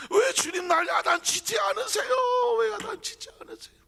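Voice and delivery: high, loud crying plea; anguished plea. Acted. Peter begging his Lord, high and anguished. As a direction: beg the Lord through anguish.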